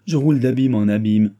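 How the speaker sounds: loud, anguished lament; theatrical despair. Acted. Old lady lamenting to the chancellor, despairing. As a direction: wail it as a dramatic lament.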